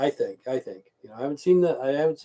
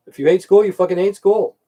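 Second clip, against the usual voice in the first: louder and higher, fired up; loud outburst; 6 semitones higher, 10 dB louder than usual. Real, not acted. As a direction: belt it like a rant. Heated outburst about school.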